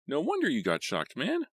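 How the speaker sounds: high, loud excited outburst; excited cry. A narrator's reading. Friend at the stage, thrilled about the shock. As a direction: blurt it out, thrilled. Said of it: "Arnie cried excitedly".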